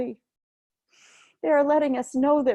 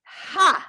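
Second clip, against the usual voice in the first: sharp breath out; 7 semitones higher than usual. Shown as a demonstration. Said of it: "and out".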